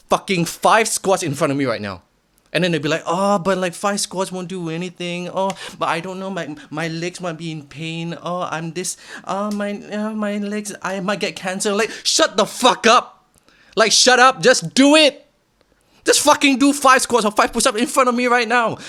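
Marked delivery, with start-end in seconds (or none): 3.1-11.7 mock whiny excuses, pitched higher; a mocking high whine; whiny excuse-maker. 11.7-18.8 loud, high exasperated yelling; yelling in real frustration; furious shout. Real, not acted. Ranting at excuse-makers.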